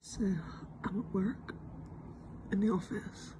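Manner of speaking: hushed, slow whisper. Real, not acted. Filming at her desk so colleagues won't hear, whispering. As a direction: keep it down so the office can't hear. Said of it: "I'm trying to be quiet".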